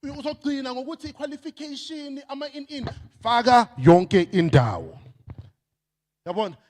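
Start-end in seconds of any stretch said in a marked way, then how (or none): 3.2-5.0 slow, weighty slogan with faka stressed; emphatic slogan. Shown as a demonstration. Speaker drills the audience on the slogan, slow and emphatic. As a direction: lay down the words faka yonke indawo slowly and firmly. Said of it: "Say it after me".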